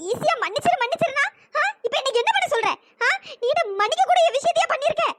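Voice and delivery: high, tearful and bitter, fighting back sobs; tearful protest. Acted. Maha to the man who tied the thali, tearful and bitter. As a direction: ask through tears why he expects forgiveness. Maha hurt by forced marriage.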